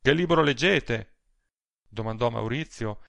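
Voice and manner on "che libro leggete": louder, higher casual question; changed tone. A narrator's reading. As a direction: switch to a new, conversational tone. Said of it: "cangiando tono di voce ed espressione".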